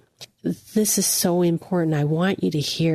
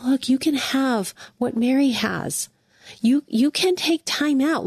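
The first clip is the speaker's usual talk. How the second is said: higher, gentle and encouraging; loving voice; 6 semitones higher than usual. Shown as a demonstration. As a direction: offer it like a kind invitation. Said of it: "I hear it in a loving voice".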